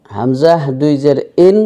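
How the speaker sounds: ইন on a clean glottal start; light vowel onset on ইন; plain hamza. Shown as a demonstration. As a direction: say ইন openly, no throat squeeze. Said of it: "Hamza উচ্চারিত".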